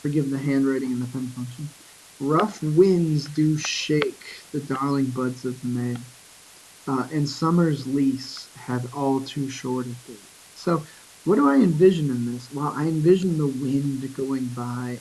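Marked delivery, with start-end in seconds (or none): 2.2-10.2 slow, deliberate reading of "Rough winds do shake"; slow reread. Shown as a demonstration. Teacher slowly rereading the lines to picture them, unhurried. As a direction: draw each line out slowly to take it in. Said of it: "slow second reading".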